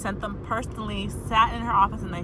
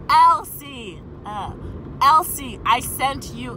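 Elsie called out louder and higher; retold firm call, bigger than it was; raised voice calling the coworker's name; mock yell; 3 semitones higher, 5 dB louder, slower than usual. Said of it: "I didn't yell, sorry".

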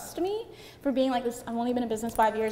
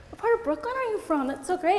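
high, eager imitation of impressed people; imitating an excited questioner; mock enthusiasm; 7 semitones higher than usual. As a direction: gush with interest, pitched way up. Acts out eager people asking her.

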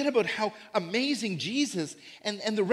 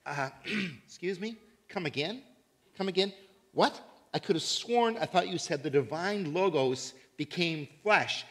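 taken aback. Retold or imitated. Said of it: "Greek people would be saying".

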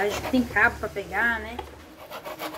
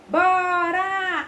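excited shout; 5 semitones higher, 6 dB louder than usual. Acted. Eager answer to own question.

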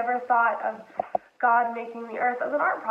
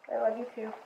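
much softer, tender echo of the line; soft tender repeat; 7 dB quieter, faster than usual. Retold or imitated. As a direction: say it again softly so she can sleep. Father repeats it to sleepy daughter.

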